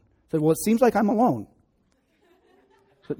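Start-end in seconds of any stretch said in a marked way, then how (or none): 0.4-1.5 put-on whiny scared kid. Scared child protests to mom.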